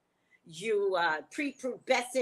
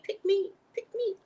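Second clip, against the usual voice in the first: mocking eager fan; 11 semitones higher than usual. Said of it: "Amuse is like".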